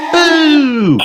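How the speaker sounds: very high, loud ghostly boo; shouted boo. A narrator's reading. Peppa jumps out at Granny, high shouted boo. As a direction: jump out with a drawn-out high shout. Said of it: "shouted Peppa".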